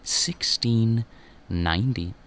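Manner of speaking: slow, drawn-out on-air welcome; radio DJ voice. Acted. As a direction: stretch it like a DJ intro. DJ opening the show.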